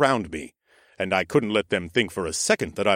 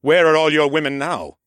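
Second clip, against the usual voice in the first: loud, higher angry taunt; shouting taunt; 6 semitones higher, 6 dB louder than usual. A narrator's reading. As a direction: yell it at the villain. Hero yells taunt at villain.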